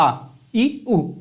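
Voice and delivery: short आ, ई, ऊ, each cut off quickly; short vowels. Shown as a demonstration. Teacher demonstrates short Hindi vowels, आ, ई, ऊ said briefly. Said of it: "बिल्कुल कम time लगा ना".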